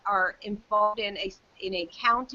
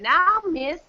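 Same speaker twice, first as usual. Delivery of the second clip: retold clerk; 9 semitones higher, 4 dB louder than usual. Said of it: "and he said".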